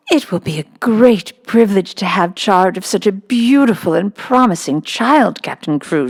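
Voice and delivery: lightly played simpering schoolmistress; Miss Minchin. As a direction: flatter the rich father, sweetly. Miss Minchin voiced in story.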